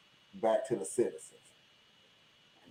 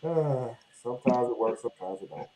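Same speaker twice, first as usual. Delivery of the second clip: distant, tinny mic sound; tin can sound; 4 semitones lower, 4 dB quieter than usual. Real, not acted. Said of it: "it still sounds like you're far away".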